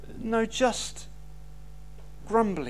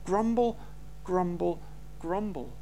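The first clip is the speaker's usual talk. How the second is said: mock grumble; 5 semitones lower, 8 dB quieter than usual. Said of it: "mimicking grumbling".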